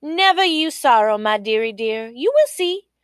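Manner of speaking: comforting daughter. Acted. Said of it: "Queenie Kwashi said".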